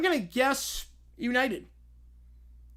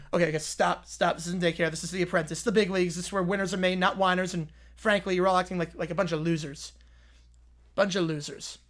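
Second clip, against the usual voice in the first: blustering tycoon boss; 2 semitones lower, faster than usual. Acted. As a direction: puff up like a reality-TV boss. Boss voice again.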